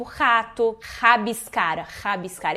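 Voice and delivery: "rato" and "rabiscar" opened with a throaty H-like R; Portuguese initial R. Shown as a demonstration. Teacher showing the Portuguese strong R, throaty initial R. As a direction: start "rabiscar" with friction in the throat. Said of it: "som do nosso R em começo de palavra".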